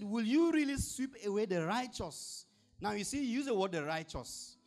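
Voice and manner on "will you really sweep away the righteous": pleading Abraham. Acted. Preacher voicing Abraham's plea.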